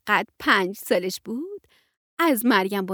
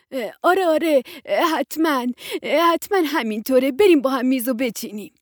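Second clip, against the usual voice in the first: flustered agreement; 3 semitones higher, 5 dB louder than usual. Acted. Maryam Banoo, just recovered from surprise, agreeing flustered. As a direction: snap out of a daze and agree.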